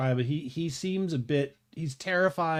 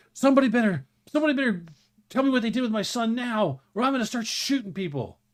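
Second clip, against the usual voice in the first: loud, shaking, trembling voice, pitched up; 9 semitones higher, 5 dB louder than usual. Voicing a man waving a gun, demanding his son: shaking gunman voice. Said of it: "he's shaking".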